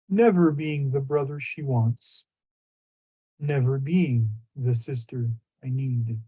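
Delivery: measured verse with pauses between lines; deliberate, solemn recital; poetry reading. Acted. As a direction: read it as a poem, each line falling to a close. Reads second poem.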